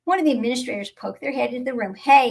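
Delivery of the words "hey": a loud, sharp "Hey"; sharp call. A narrator's reading. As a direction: call them out from the doorway. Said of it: "he said sharply".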